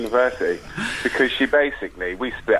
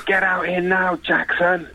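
mock-furious call through a door; re-enacted order, a little higher; retold angry demand; 5 semitones higher, slower than usual. Calling out rival hiding in his room, retold angry demand. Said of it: "Banging on his door".

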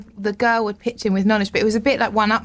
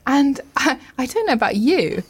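sickly sweet guide. Retold or imitated. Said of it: "do it in a really sickly way".

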